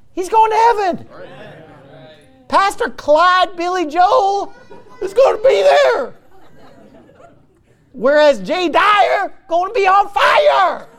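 high laughing shout. Real, not acted. Preacher laughing at his own joke about heaven. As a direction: crack up while declaring it.

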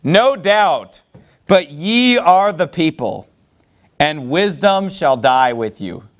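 slow mock praise; deliberate, mocking compliment; sarcastic. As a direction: draw it out with sarcastic emphasis. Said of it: "Job uses some sarcasm".

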